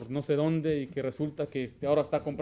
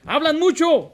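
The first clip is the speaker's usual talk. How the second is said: higher, louder preaching burst; emphatic shout; 12 semitones higher, 12 dB louder, slower than usual. Real, not acted. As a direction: hammer home the point. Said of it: "¿Qué significa eso?". (grito enfático de predicador, más agudo y fuerte)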